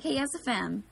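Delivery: clipped-word South Philly Italian greeting; slight South Philly Italian-American accent. Acted. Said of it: "they say".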